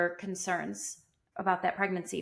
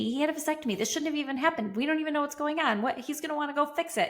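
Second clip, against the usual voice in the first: high, fast, flustered rush; retold panic; 5 semitones higher, much faster than usual. Dreading telling her husband, retold fluster. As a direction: race through the worries at a raised pitch.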